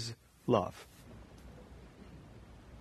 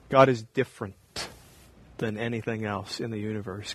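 hushed reverence; 4 semitones lower, 7 dB quieter than usual. Real, not acted. Pastor to congregation on God's holiness, hushed. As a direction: lower your voice in awe.

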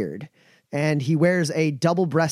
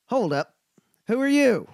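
guard challenge; 9 semitones higher than usual. Acted. Guard challenges arriving party.

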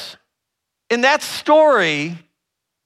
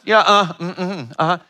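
half-hearted grunts, fading off; little listening grunts. Shown as a demonstration. Showing the audience bobblehead listening, with idle grunts. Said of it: "you do a little grunt".

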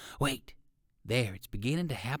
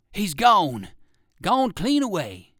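louder, higher dismayed bark; Bowser exclaiming; 5 semitones higher, 8 dB louder, slower than usual. A narrator's reading. Bowser at the empty hole, loud dismay. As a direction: cry out that the rabbit got away. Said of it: "exclaimed Bowser".

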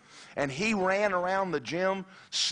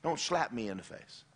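soft, polite plea to a bully; meek retold request; asking nicely; 5 dB quieter than usual. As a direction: timidly ask him to stop. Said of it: "I asked him nicely".

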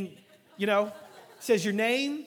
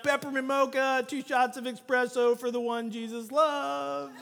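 barista calling order; 5 semitones higher, slower than usual. Retold or imitated. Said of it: "for the guy to stand up and be like".

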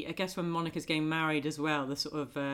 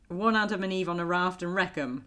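quick waitress order shorthand; diner order call. Retold or imitated. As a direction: rattle off one Adam and Eve on a raft and wreck 'em as an order. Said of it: "Phoebe gives her impression of being a waitress".

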